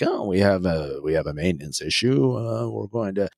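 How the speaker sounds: pretend excuse. Crew stalling passengers over a supposed maintenance issue, mock pretending. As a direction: stall with a hint of a put-on official voice. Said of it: "they kinda pretend like".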